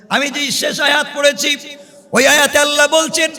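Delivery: high, ringing sermon delivery; preacher in a high, urgent pitch; impassioned preaching. Acted. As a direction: raise the voice and preach each phrase out. Preaches at full force.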